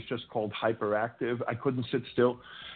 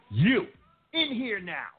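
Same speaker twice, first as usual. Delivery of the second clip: mock stern summons; 8 semitones higher, slower than usual. Principal summoning him into office.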